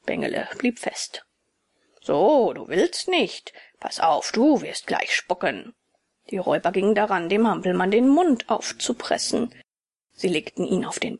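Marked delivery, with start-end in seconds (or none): 2.0-5.8 menacing robber. Acted. Robber threatens Bengele.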